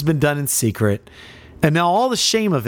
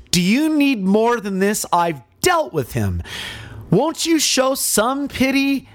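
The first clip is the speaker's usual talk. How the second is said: lightly voiced Pilate, raised higher, begging the crowd; a governor pleading for pity, pitch climbing up; 3 semitones higher than usual.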